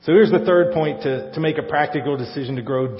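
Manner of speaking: loud booming preacher on mic; boomy mic voice. Pretend. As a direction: boom it through a mic. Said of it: "like Pastor Chris with a boomy mic".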